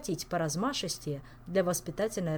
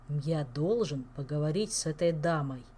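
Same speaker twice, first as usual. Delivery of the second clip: growled warning; 3 semitones lower than usual. Acted. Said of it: "медленно и угрожающе произнёс он".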